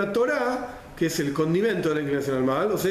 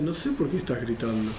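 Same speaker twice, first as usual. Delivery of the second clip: calm quiet reply; 6 semitones lower, 3 dB quieter than usual. Retold or imitated. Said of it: "uno está muy tranquilo y dice".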